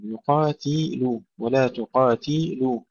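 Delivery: تقاتلوا slowed, stretching ti before lu; drawn-out kasra. Shown as a demonstration. Teacher breaking down the vowels, slow ti-lu in تقاتلوا. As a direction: linger on the i after ت in يقاتلوا and تقاتلوا. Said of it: "كسر التاء".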